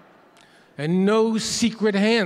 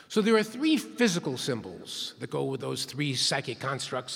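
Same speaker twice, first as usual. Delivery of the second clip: ordinary talk, nothing marked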